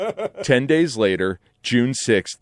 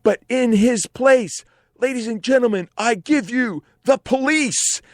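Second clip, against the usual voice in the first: mock Irish rock-star scream; a singer, Irish accent; 11 semitones higher than usual. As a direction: announce it over the roar in an Irish accent. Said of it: "the singer screams over the noise of the crowd".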